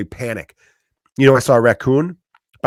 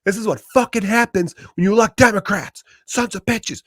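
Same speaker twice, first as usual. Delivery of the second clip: much higher, hammed-up sneering ranter; mock angry neighbor; 11 semitones higher than usual. Comic mocking a Facebook group neighbor blaming Democrats, sneering and high. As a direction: lampoon the smug know-it-all neighbor. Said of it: "And everyone's like".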